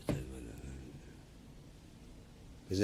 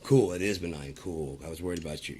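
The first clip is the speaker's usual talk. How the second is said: mock relieved friend; 3 dB louder than usual. Imitating a friend hearing news is benign, relieved. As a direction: fake breezy relief. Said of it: "you're like".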